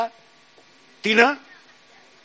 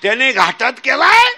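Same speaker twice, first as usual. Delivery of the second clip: louder call-out; 4 semitones higher, 4 dB louder than usual. Shown as a demonstration. Preacher repeats louder after a sound complaint. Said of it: "आवाज कमी येतोय".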